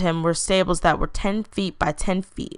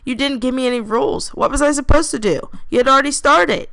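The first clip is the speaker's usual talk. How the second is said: playful protest; 7 semitones higher than usual. Acted. Playful argument between brothers.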